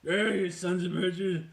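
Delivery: put-on high, loud old geezer voice; old man voice. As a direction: ham up a toothless old cowboy. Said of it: "he looked like this old guy".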